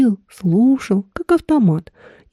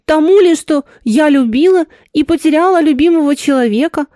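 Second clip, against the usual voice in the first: lightly voiced woman, higher and pressing; agitated woman; 4 semitones higher than usual. Woman defending herself to him, mildly agitated.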